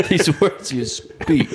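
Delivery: slow, pompous mimicry with laughter around it; laughing imitation of grand narration; mock nature narrator. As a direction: tease his solemn delivery, stretching the words. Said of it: "about to go narrate Planet Earth".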